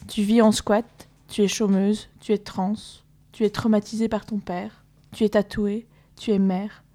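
steady rhythmic listing, one item per breath; measured militant poem reading; manifesto reading. Acted. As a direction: read it like a spoken-word protest text. Reading a manifesto text aloud.

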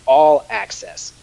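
drawn-out, emphatic ad pitch; slow announcer read. Acted. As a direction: sell the words slowly.

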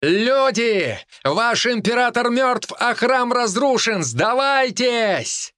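booming thunder and wind; booming roar. Acted. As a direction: roar it high and slow to the crowd. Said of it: "После чего взревела".

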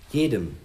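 "Jedem" set apart with a pause after it; emphatic JEDEM. Acted. Chief briefs the task force, stressing "Jedem". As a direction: make "Jedem" stand alone as an order. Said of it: "ich betone".

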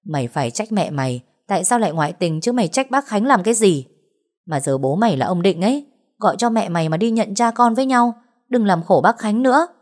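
scolding rebuke. Acted. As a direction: tear into her for blaming the father.

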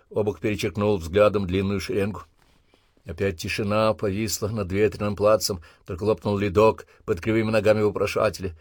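plain reading voice

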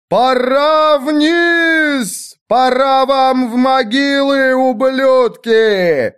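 high, very slow raging shout; fury's scream. A narrator's reading. The widow twisting Erwin's order into a raging shout. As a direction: scream it like a furious fury. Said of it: "криком яростной фурии".

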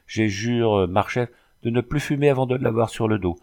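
mildly whining, halting confession; a touch of tearful pleading, understated. Acted. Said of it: "d'un ton larmoyant". (ton légèrement larmoyant)

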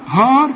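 هار with a thick, backed vowel; wrong heavy h. Shown as a demonstration. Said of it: "خطأ كلها". (تفخيم خاطئ في هار)

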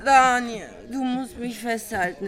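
slurring tipsy voice; sway and slur like she's had too many; drunk. Acted. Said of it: "ich bin total besoffen".

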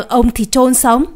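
threat. Acted. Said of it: "ông trợn mắt nói".

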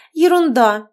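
indignant retort. Acted. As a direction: brush him off, offended. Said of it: "возмущённо возразила та". (возмущённо, громко)

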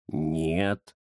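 низкое тихое «нет»; лениво отрезать; ленивый кот Захар. Acted. (Захар лениво отказывает Рамзесу)

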